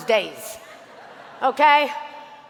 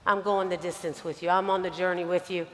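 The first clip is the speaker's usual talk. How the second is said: softer and lower, a quiet heartfelt promise; quiet sincere vow; 5 semitones lower, 3 dB quieter than usual. Retold or imitated. Young Lauren promising her mentor loyalty, soft and sincere. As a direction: pledge it gently, almost under the breath. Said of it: "And I say".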